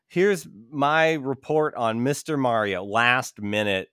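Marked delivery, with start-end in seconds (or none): 0.1-2.8 mock school report. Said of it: "eighth grade project".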